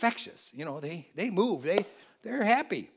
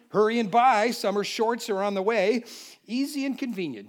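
mock poem recital.

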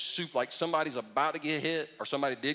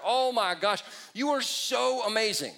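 sarcastic praise; 4 semitones higher than usual. Retold or imitated. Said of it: "I'm making fun of it".

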